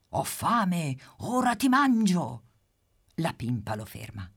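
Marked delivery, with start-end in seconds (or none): 0.1-2.4 louder, rising threat of a hungry cat; big cat's shout. Acted. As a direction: chase and threaten. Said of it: "che grida".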